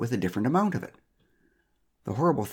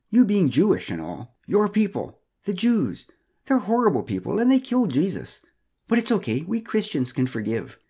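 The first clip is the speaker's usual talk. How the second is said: a lightly voiced, higher, patronizing busybody; Pamela's voice; 4 semitones higher than usual. Narrator voicing Pamela lecturing Joseph, lightly patronizing. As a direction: talk down kindly, sure of yourself.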